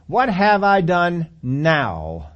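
drawn-out weary protest; exasperated whine. Acted. David to his brother, slow and exasperated. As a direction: stretch it out, fed up. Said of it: "he's yelled at him in this way".

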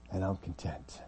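softly settled; understated calm after the storm; calm contentment. Acted. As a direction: drop to a quiet, accepting statement. Paul's calm answer to his hardships.

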